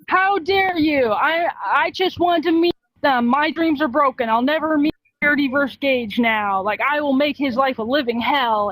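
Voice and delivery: mock outraged fan. Disappointed fan flipping out on the second in command, mock outrage. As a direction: act out a fan's meltdown, lightly hammed-up. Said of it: "flips their shit".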